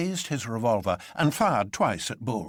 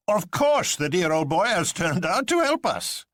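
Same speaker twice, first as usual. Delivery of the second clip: relieved; 11 semitones higher, 4 dB louder than usual. A narrator's reading. Colonel relieved, greets friend.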